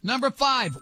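ordinary talk

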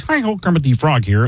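nasal frog puppet voice; pinched nasal Kermit. Retold or imitated. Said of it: "Kermit the Frog is a nasal voice".

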